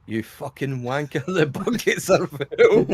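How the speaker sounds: slow mock Scottish grumble, laughing at the end; hammed-up angry Scottish alert, slow; angry Scotsman. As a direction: growl it like a cross Scot. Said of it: "Angry Scotsman".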